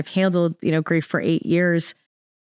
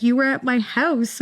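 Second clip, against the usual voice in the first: higher, amazed retelling of the friend; amazed quote; 7 semitones higher than usual. Retold or imitated. The friend realizing she was there, pitched-up amazement. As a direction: relay her astonishment, pitched up.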